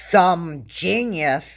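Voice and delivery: slow, dry, sarcastic praise. Real, not acted. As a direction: say genius like you mean the opposite. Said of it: "I'm being sarcastic when I said that".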